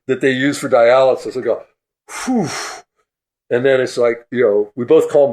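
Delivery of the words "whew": relieved exhale. Retold or imitated. Relief after the scare.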